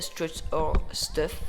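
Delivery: slow, hesitant English words in a heavy French accent; English brand name fumbled in French accent. Real, not acted. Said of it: "avec mon accent de merde".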